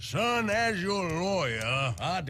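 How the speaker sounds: slow, light chicken-voice drawl. Voicing a humble chicken lawyer at a witness box: Foghorn Leghorn-style voice. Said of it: "combination of Foghorn Leghorn and then just, like, a, like, a humble chicken lawyer".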